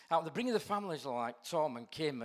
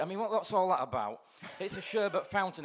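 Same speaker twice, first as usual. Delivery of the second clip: laughing; 4 semitones higher, 4 dB louder than usual. Real, not acted. Amused at sweet on seat.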